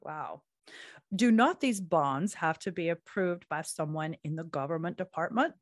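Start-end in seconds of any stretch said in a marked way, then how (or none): 1.1-5.5 a hint of Southern accent. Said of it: "now you're doing Southern?".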